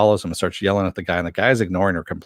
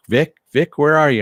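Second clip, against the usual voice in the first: mock call, pitched high and louder; imitating a searching call, raised voice; 7 semitones higher, 5 dB louder than usual. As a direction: call out for someone who has gone missing. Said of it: "she's looking for Vic".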